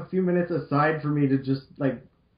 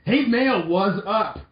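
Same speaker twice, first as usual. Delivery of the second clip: put-on higher, louder cheerful boy voice; Lan voice; 6 semitones higher, 4 dB louder, much slower than usual. Lan greets Mail at the door, higher and louder. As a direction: chirp it like a bright kid hero. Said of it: "I'll do Lan".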